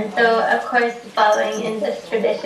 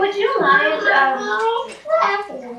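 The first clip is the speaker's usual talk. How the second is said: higher, sweetly naive request; Ben asking a favour; 5 semitones higher than usual. Retold or imitated. Ben asks the Buddha statue to mind his pack, higher and naive. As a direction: ask the statue innocently, pitched up. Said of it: "and he says".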